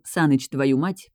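ordinary delivery

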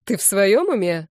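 mildly angry rebuke; annoyed. A narrator's reading. Boss dismisses the redhead's story, annoyed. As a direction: question their sanity with some irritation. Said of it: "рассерженно произнёс тот".

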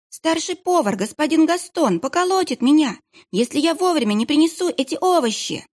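put-on high boy's voice, pleading; a scared child pleading in a high voice; frightened kitchen boy. Boy pinned to the wall pleads he must deliver vegetables, high and scared.

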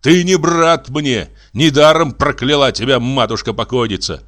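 disown him with heated weight; bitter denunciation. Acted. Enraged brother disowning his brother, bitter denunciation.

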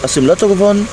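amazed questioning. Acted. Amazed friend questions new car.

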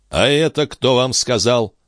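a touch of startled exclaiming; exclamation. Acted. Бальзамо восклицает, поражённый словами Филиппа. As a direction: snap out the question in surprise. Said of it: "воскликнул Бальзамо".

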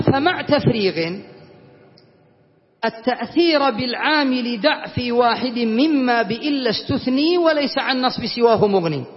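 slow recital of the grammar verse. Shown as a demonstration. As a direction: chant the poem lines slowly to the class. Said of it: "قال". (إنشاد بطيء لأبيات الألفية)

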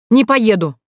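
high, loud shrieking refusal; squealed. Acted. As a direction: shriek the refusal like a stubborn teen. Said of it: "ожидаемо взвизгнула сестра". (визгливый громкий отказ)

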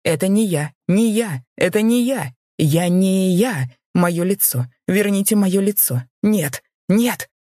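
high, loud and frantic, stretching the words; a man losing his mind in terror; panicked pleading. A narrator's reading. (в панике, высоко и громко)

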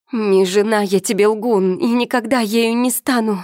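high loud shriek. A narrator's reading. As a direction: scream it at him in fury. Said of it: "визжала Элька".

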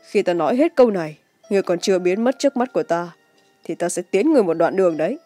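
cold, measured threat; icy voice. A narrator's reading. Chu Bạch Tự warns his beaten foe to leave, icy. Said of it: "Giọng nói bằng lãnh".

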